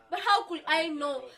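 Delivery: mildly indignant question; defensive protest. Acted. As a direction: plead ignorance, with controlled indignation. Protests being called dumb.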